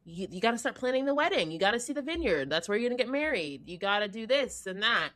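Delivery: lightly voiced bustling mom; a hint of a mom rattling off wedding plans; eager mom. Mom pushing fiancee to plan the wedding, mildly eager. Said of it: "the mom is like".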